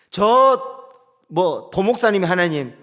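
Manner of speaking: ordinary delivery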